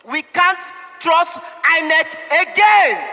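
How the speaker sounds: a frustrated voter breaking into an angry shout; emotional shout. Real, not acted. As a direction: shout it out, voice rising. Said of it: "I'm so sorry I'm being so emotional".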